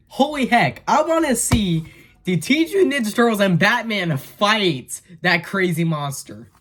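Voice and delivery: high-pitched fan excitement; eager, amazed gushing; excited. Real, not acted. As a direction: burst out with it, pitched well up. Fan thrilled by sequel prospect.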